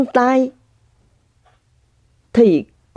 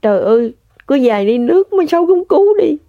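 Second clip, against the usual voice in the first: quoting her son; 5 semitones higher, faster than usual. Retold or imitated. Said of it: "Cái nó nói với tôi như vậy".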